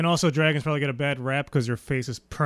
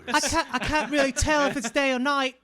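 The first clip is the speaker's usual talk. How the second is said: voicing blind Arya; 8 semitones higher than usual.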